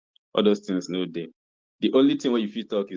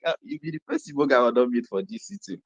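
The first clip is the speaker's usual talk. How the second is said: excited greeting; 6 semitones higher than usual. Retold or imitated. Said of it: "this was funny because I was like".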